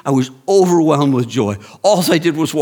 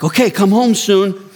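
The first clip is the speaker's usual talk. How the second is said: amused wife; 9 semitones higher, 4 dB louder than usual. Retold or imitated. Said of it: "And she's like".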